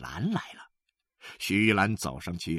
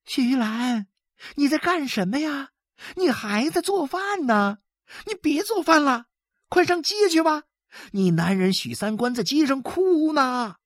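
higher, eager neighbour voice; urgent neighbour; 3 dB louder than usual. A narrator's reading. Neighbour urges Xu Yulan to the street, high and eager. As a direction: hurry her out of the kitchen.

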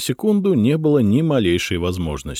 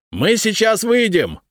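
shouting. A narrator's reading. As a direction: call out slowly up the stairs. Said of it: "крикнул Третьяк".

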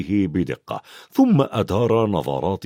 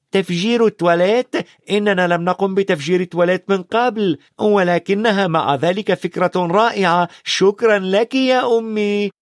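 put-on higher, playful boy's voice; lightly voiced mischievous twins; cheeky twins; 8 semitones higher, 3 dB louder than usual. A narrator's reading. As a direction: tease mum cheekily.

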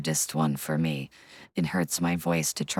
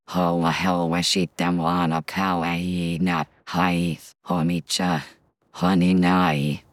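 put-on cute anime girl voice, lightly done; chirpy idol girl, sweet and bright; Kotori voice; 3 dB louder than usual. Shown as a demonstration. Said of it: "an impression of Kotori from Love Live".

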